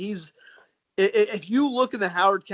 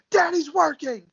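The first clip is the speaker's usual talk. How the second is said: higher, mock exasperated parent hushing a kid; joking about a child interrupting a work call, hammed-up; mock frazzled dad; 10 semitones higher, 3 dB louder than usual. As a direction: pretend to snap at the toddler behind you. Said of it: "You just turn around and go".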